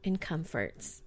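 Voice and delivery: measured campfire-tale reading; spooky story narration. A narrator's reading. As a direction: set the scene for a scary story. Reads scary story.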